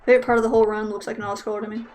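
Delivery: dry sarcastic quip, quick. Acted. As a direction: say it with fake enthusiasm, fast. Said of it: "that was sarcasm".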